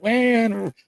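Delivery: frantic caller. Retold or imitated. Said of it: "they would call me up like".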